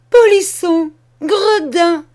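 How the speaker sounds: screamed high and loud; shouted insults. Acted. Furious cousin screams insults at fleeing Charles. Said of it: "s'écria-t-elle".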